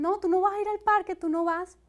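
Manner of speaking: high, loud playground taunt; sing-song it like kids teasing a friend; mother imitating little friends teasing a child. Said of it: "los amiguitos le dicen".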